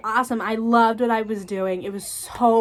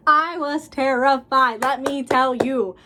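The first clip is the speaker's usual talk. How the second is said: TERRIFIED stretched out slowly, higher and louder; emphatic repeat; 4 semitones higher, 5 dB louder, slower than usual. Real, not acted. Stylist confessing nerves over first color client, slow loud emphasis on "terrified". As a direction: hammer "terrified" slowly and loudly.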